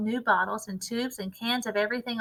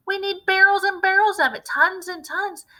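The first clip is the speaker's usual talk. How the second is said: much higher and louder, greedy with excitement; excited cry; 10 semitones higher, 6 dB louder than usual. A narrator's reading. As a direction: shout it, dreaming big.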